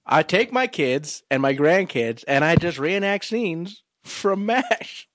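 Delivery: slow, botched celebrity impression in a muddled accent; bad Alan Alda. Actor pitching his reenactments, bad Alan Alda impression. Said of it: "What accent are you doing right now?".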